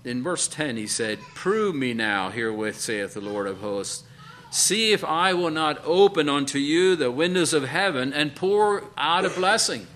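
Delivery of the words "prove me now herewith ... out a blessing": builds from firm to a ringing, higher, louder call; scripture proclaimed. Acted. Preacher proclaiming God's promise to the congregation, building to a loud call. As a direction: preach the promise out to the church with rising force.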